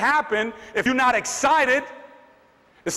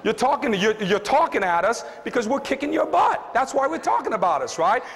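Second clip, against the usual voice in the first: higher, punchy comeback to rivals; mock shutdown; 4 semitones higher than usual. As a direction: snap back at the rivals with a mock rebuke. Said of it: "you've gotta have a voice".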